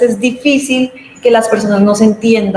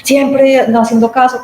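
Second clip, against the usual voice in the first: slow, higher, scolding reproach; slow, reproachful scolding tone; critical reproach; 4 semitones higher than usual. Shown as a demonstration. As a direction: nag them as if they never listen. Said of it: "con un tono que ya yo".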